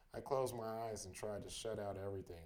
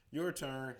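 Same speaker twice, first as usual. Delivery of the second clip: louder, higher shout in passing; calling out; 4 semitones higher, 7 dB louder than usual. A narrator's reading. Bandmate to narrator as he runs past, calling out. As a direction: toss it out loudly on the run. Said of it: "Howie called at me as he ran past".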